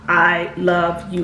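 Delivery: slow sincere reassurance; slow tender I love you. Shown as a demonstration. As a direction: draw out "I love you" gently and slowly. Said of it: "tell your child".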